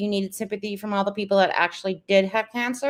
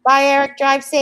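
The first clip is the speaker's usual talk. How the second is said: calling out; 6 semitones higher, 8 dB louder than usual. Real, not acted. Calling goodbye to someone leaving.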